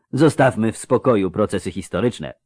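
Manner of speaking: mildly placating voice with a cold; smooth things over gently; conciliatory, congested. A narrator's reading. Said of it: "rzekł pojednawczo zakatarzony".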